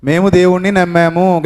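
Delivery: said out loud. Shown as a demonstration. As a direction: say it boldly for all to hear. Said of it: "గట్టిగా చెప్పండి".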